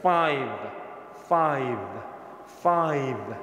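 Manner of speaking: "ফাইভ" said deliberately with upper lip pushed up; upper lip held up. Shown as a demonstration. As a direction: model "ফাইভ" with lips kept apart. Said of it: "এরকম বলেন".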